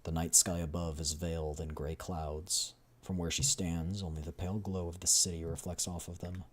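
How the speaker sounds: measured, dramatic game narrator; story narration. A narrator's reading. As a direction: read the scene as a storyteller.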